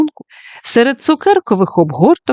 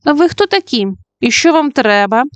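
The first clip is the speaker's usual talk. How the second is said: suspicious question; 5 semitones higher than usual. Acted. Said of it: "підозріло спитала".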